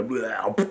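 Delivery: mock vomit noise, blah blah; imitating throwing up by the rocks; imitated retching. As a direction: fake a quick heave. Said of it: "that's exactly how it sounded".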